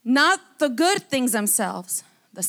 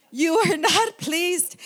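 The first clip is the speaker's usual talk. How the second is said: laughing through tears; 4 semitones higher, slower than usual. Real, not acted. Rereads verse through tearful laughter.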